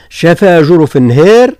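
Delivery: a slow, recited شفا جرف النهار; recited quote. Shown as a demonstration. Teacher cites the verse with a light recitation. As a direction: recite the phrase slowly. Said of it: "قوله تعالى".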